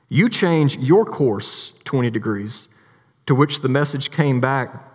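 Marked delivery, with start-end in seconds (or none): 0.1-2.7 slow, firm, mildly indignant order; lightly voiced captain demanding the other ship give way; mock furious captain. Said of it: "this made the captain furious".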